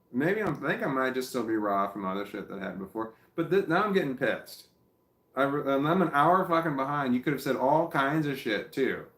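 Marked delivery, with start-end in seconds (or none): 3.4-9.0 louder, higher irritated outburst; real annoyance boiling over; getting pissed off. Real, not acted.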